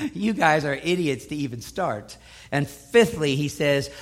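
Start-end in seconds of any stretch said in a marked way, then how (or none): 0.1-2.2 mocking. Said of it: "Kind of like mocking and say".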